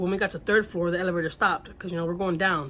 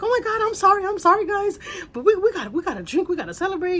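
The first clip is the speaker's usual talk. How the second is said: much higher and louder, giggly party voice; imitating drunk neighbor; 12 semitones higher, 6 dB louder than usual. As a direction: mimic her tipsy apology, laughing, pitched up.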